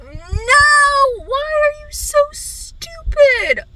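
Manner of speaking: high, slow outraged cry at him; exasperated yell at character. Retold or imitated. Reader yelling at fictional character, exasperated high cry. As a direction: wail it at the page. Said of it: "I'm just like".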